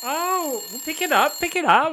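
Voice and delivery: high, loud, urgent calls to pick up; excited shout. Real, not acted. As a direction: shout at him to grab the phone. Co-host urges answering ringing phone.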